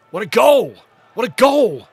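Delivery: loud high shout of joy; ecstatic shout. Real, not acted. Streamer rewatching the goal, shouting in delight.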